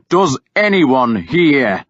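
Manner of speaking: loud slow challenge; shouting. Acted. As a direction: shout it to the crowd. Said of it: "I shouted".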